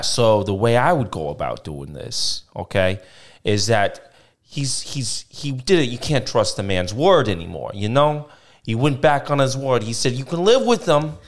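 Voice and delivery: lightly faked mobster accent; a hint of New Jersey wise guy giving his verdict; Ben Soprano. Host advising a caller, in a mock mobster accent. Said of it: "Ben Soprano, what you got for her?".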